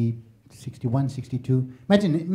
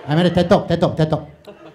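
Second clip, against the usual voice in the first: Malaysian phone chatter; 3 semitones higher, 6 dB louder than usual. Retold or imitated. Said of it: "Malaysians were on the phone going".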